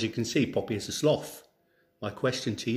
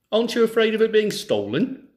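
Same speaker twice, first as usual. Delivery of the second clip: eager question; 10 semitones higher, 7 dB louder than usual. Acted. Thieves ask the farmer.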